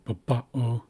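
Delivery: "babao" with emphasis on the middle "ba"; middle-syllable stress. Shown as a demonstration. Teacher comparing both spellings, "babao" stressed in the middle. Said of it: "and that's in the middle".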